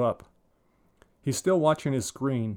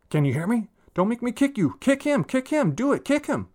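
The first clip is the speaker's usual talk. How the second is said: frantic shouting; 12 semitones higher, 4 dB louder than usual. Acted. Boy shouting orders in game.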